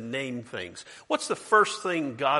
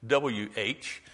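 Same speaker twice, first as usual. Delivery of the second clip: spelled out slowly; much slower than usual. Shown as a demonstration. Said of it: "we would say".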